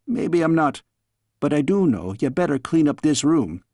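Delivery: lightly voiced Scots nanny, teasing scold; a fond old nurse chiding in a Scots lilt; a hint of a Scottish nursemaid. Nanny figure scolding the girl.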